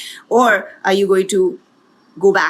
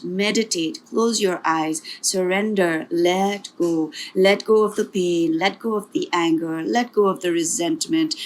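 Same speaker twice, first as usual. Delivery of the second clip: guided meditation. Acted. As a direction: ease them inward gently.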